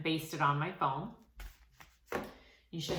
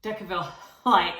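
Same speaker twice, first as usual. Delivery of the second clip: a short embarrassed laugh breaking into the words; sheepish giggle mid-phrase; laughing at herself; 8 dB louder, faster than usual. Real, not acted. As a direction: laugh through the word as you lose your place. Laughs at losing her words.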